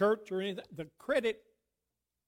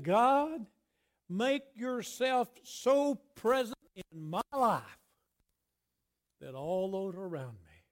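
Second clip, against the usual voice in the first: slow, raised-pitch earnest plea; David; slower than usual. Acted. Preacher voicing David asking for God's presence, impassioned plea. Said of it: "He's saying".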